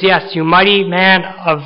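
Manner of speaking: lightly voiced Lord affirming Gideon; a hint of divine insistence; the Lord insisting. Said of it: "And the Lord says".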